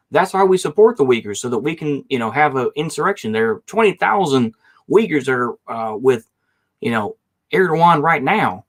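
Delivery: a bad, hammed-up American Southern accent, rising up at the start; rubbish Southern accent. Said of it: "rubbish, uh, Southern accent".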